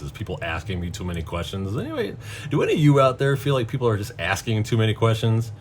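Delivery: normal talking voice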